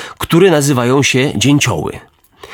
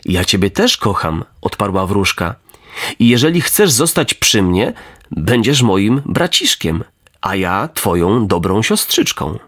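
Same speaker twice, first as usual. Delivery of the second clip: gentle fairy; 4 semitones lower than usual. Acted. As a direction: soothe the boy like a big sister. Fairy voiced lower, gentle.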